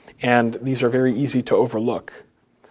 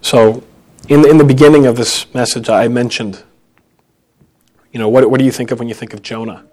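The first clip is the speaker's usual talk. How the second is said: loud appeal; 11 dB louder than usual. Real, not acted. Preacher calls out to congregation.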